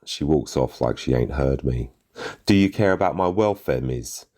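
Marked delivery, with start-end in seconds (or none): 2.5-4.3 pleading shout. A narrator's reading. Shouting after the teacher.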